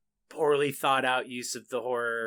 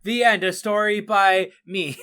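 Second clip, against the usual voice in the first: higher, louder closing line; grand storybook ending; 4 semitones higher, 7 dB louder than usual. Pretend. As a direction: announce it like a storyteller.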